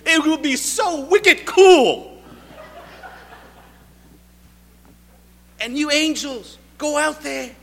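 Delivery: loud, high, hammed-up New England accent. Preacher as God addressing the angels, hammed-up loud New England accent. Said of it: "New England accents".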